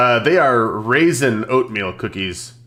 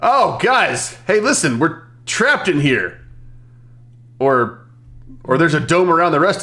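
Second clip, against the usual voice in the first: raised-pitch call to get attention. Acted. Hero alerts teammates they are trapped, calling out. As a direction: call the group over with urgent news.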